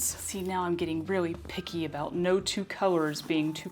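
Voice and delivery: whispered aside; breathy confiding whisper. Real, not acted. Confiding aside about pickiness.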